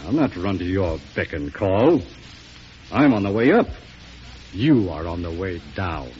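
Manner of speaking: defiant outburst. Acted. Senator defies the president.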